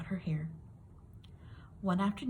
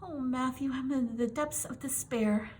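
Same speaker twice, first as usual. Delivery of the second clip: dramatic despair; 6 semitones higher than usual. A narrator's reading. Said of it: "Anne declared".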